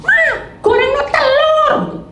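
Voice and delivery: very high, slow drawn-out call; whining demand. Retold or imitated.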